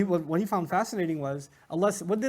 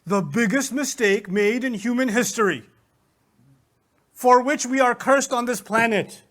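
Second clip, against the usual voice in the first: emphatic, building louder in disbelief; mock outrage, weighty and rising in force; disbelieving; 3 semitones higher, 5 dB louder than usual. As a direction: imitate an incredulous professor declaiming. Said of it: "I couldn't believe it".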